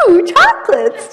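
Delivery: high, loud delighted gush; excited squeal. Retold or imitated. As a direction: squeal with glee over a treat. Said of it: "just like that".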